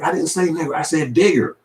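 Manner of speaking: high, whiny coworker pleading his innocence; mocking a coworker denying he said it; mock white coworker. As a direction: squeak it out like a nervous office guy.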